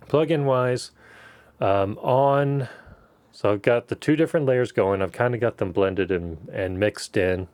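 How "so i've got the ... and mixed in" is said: muffled, mouth covered by hand; hand over mouth. Real, not acted. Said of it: "Sorry, I'm covering my mouth".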